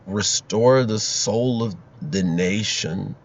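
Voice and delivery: slow, soft, drawn-out mumble; Joe Biden. Retold or imitated. Candidate answering the moderators at a debate, slow soft impression. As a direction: impersonate a drowsy politician, very slowly. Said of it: "he'll be like".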